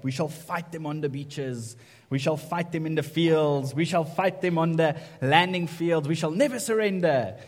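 amateur impersonation of a defiant orator; Winston Churchill. Acted. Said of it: "my best Winston Churchill impersonation".

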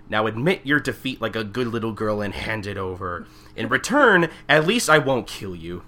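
a hint of a gloating villain; villain monologue. Villain monologuing while choking the girl, gloating. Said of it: "monologuing again, saying".

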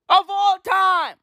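high, slow shouted repeat; emphatic shout. Acted. Comic hyping the crowd, slow emphatic shout. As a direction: bellow it out for emphasis.

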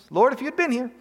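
pleading complaint to Jesus. Retold or imitated. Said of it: "Have you said that before to Jesus?".

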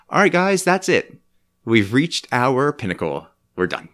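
mock grand farewell. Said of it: "we come on and just say".

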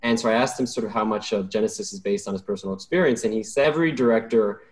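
lightly put-on snobby film buff; a hint of pretentious film snob; movie snob voice. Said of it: "I'm gonna try to sound like a movie snob".

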